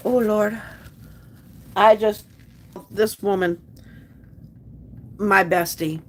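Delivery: halting, with long pauses to hold back tears; real emotional choking up. Real, not acted. Streamer praising the friend who has been her rock, choked up. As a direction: struggle to get the words out. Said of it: "Sorry for getting emotional there".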